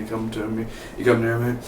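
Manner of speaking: lightly put-on survivor badass; mock-tough apocalypse threat; apocalypse tough-guy voice. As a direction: warn strangers off your pack, deliberately. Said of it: "That's how I would talk in the apocalypse".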